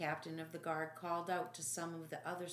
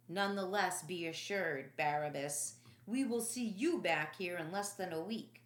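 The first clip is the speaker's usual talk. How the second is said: taunting soldier; 4 dB louder than usual. Acted. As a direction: gloat at the freed prisoner.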